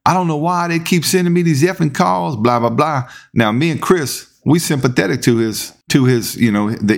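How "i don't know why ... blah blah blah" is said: much higher, ranting imitation of a furious colleague; enraged hollering. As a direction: mimic him griping in a rage. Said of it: "he's enraged".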